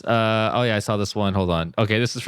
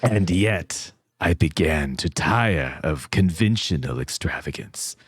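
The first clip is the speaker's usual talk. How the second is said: spooky voice; 4 semitones lower than usual. Acted. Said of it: "Do it with a voice".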